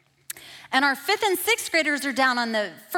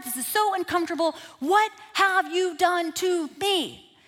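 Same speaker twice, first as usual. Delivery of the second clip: crying out to God; 5 semitones higher than usual. Retold or imitated. Woman crying out to God on her couch, anguished and tearful. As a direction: plead with God through tears. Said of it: "I say in an audible voice".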